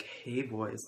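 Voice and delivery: lightly imitated flamboyant greeting; drawn-out, mildly campy hello in imitation; flamboyant teacher. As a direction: put a touch of flamboyance on it. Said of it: "super flamboyant voice".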